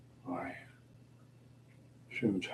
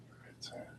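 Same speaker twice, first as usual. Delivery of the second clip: whispered repeat of the line; 23 dB quieter than usual. Real, not acted. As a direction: drop to a whisper. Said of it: "you know where it's at".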